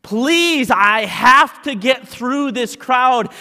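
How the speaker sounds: high, loud, slow desperate plea; pleading. Acted. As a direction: beg them to let you through the crowd. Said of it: "someone starts pleading".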